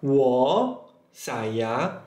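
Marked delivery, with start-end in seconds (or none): 0.1-0.8 "Wo" drawn out, dipping then rising; Mandarin read-aloud. Shown as a demonstration. Teacher reading again for learners, "Wo" in careful Mandarin. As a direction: model "Wo" slowly for repetition. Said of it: "saya akan baca ulang".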